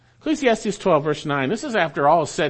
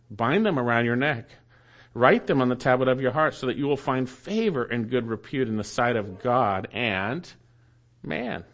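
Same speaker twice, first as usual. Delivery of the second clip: lower, measured Bible reading; scripture reading; 4 semitones lower than usual. Real, not acted. Preacher reading chapter three to the congregation, measured scripture reading. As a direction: read the verses evenly, pausing between them.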